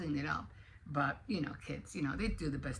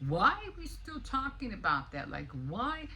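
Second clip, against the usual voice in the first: mock Trump; 5 semitones higher than usual. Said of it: "seeing Trump, um, exploding".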